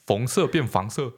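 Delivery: put-on 红色 said like 黄色 in a Hakka accent, slow. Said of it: "他会把红色变成黄色".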